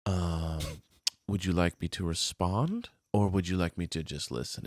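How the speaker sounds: soft, low therapy-calm offer; calm and careful, like he's been coached; trained calm husband. Retold or imitated. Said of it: "That was a trained response".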